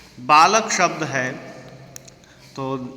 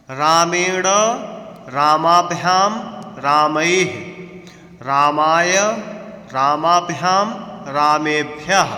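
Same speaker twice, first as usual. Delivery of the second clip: declension recitation. Shown as a demonstration. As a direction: recite every form crisply, pausing between. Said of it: "आपने अभी राम शब्द का उच्चारण सुना".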